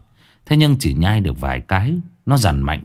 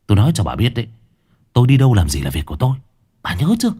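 angry snarl; 4 semitones higher, much faster than usual. A narrator's reading. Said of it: "gằn lên từng chữ".

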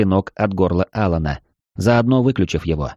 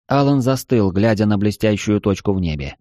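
plain reading voice

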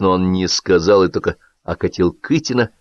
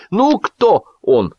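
high, drawn-out teasing question; slow, raised, goading; egging on; 12 semitones higher, 3 dB louder, much slower than usual. A narrator's reading. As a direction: prod them to guess, stretching the words. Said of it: "подзадорил Белявский".

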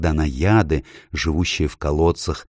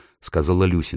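usual speaking voice

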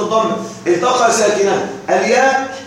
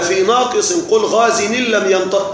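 verse recitation. Shown as a demonstration. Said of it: "قال".

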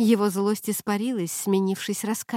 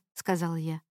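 ordinary delivery, nothing marked

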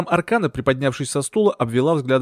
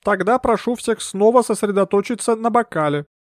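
higher, otherworldly medium voice; mystic medium; 9 semitones higher than usual. Acted. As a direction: draw them into the séance. Medium leads the séance.

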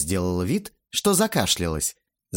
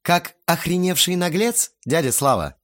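high-pitched mock-helpful question; snide prompting; 7 semitones higher than usual. A narrator's reading. Teenager finishes the guest's insult for him, snidely. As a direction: offer the missing word with mild malice. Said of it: "с ехидным видом подсказал я".

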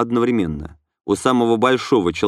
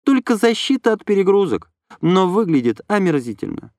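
higher female voice, a touch unhappy; unhappy young woman; 8 semitones higher than usual. A narrator's reading. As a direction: answer glumly as Lena. Lena explains.

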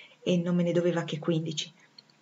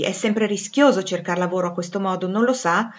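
building, louder and raised insistence; exasperated demand; 2 semitones higher, 6 dB louder than usual. Acted. Master demands nine pounds back from Jane, exasperated and insistent. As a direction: push harder as the protest grows.

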